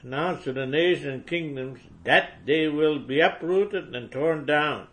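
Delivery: fiery preaching. Acted. Preacher against rival churches, building fiery denunciation. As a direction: denounce them with rising fire.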